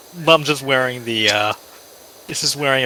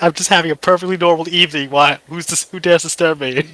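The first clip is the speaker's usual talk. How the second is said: angry Vincent Price; 4 semitones higher than usual. Retold or imitated. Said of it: "the angry face".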